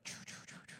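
voiceless stuttered choo sounds; whispered mock stutter; imitated stutter. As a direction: mimic a stammering start. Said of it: "she kinda stutters".

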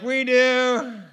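excited group answer, high and loud; eager reply. Retold or imitated. Patients all answering the head guy, eager and excited. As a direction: call it out like the whole room wants in.

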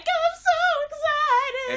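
high, slow, gushing squeal; overexcited. Retold or imitated. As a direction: squeal it like an eighties TV kid. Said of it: "'Cause you'll just be like".

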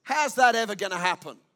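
loud sceptical scoff; doubting priest scoffing at the angel; scornful doubt. Retold or imitated. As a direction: sneer at the promise. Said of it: "declaration of unbelief".

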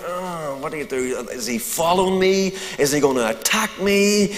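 hushed, worried inner voice; muttering panicked thoughts to himself; nervous hush. Retold or imitated.

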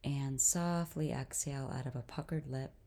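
calm guided-breathing voice with long pauses; guided meditation. Real, not acted. Host leads listeners through breathing, guided meditation. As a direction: lead them gently through each breath, unhurried.

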